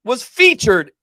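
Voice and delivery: slow, loud, laughing it out; laughing disbelief. Real, not acted. Cohost tells viewers about the magazine, laughing loudly. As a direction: crack up as you say it. Revealing the cat magazine fact.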